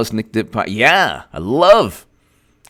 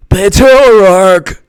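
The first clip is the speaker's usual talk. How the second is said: slow earnest; 8 semitones higher, 7 dB louder than usual. Shown as a demonstration. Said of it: "speaks like this".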